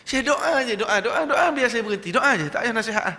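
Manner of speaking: high and loud, laughing as he begs; laughing plea. Retold or imitated. Smoker asking the Syekh only to pray, laughing. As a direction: chuckle and beg for just a prayer.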